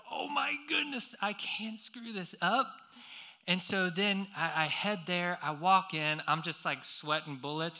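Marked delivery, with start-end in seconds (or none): 0.1-2.7 stressed self-talk. Retold or imitated. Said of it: "you know, you're stressed".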